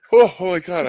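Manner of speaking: very high, very loud, breathless laughter. Laughing hard at a joke and struggling to breathe: out of breath from laughing. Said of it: "I have to catch my breath".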